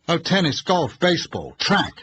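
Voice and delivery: a smiling, slyly proud boast; sly smile. A narrator's reading. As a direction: lay out the list with a sly grin. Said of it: "he smiled slyly".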